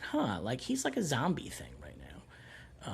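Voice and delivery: soft, breathy musing; hushed thought to self; whispering. Retold or imitated.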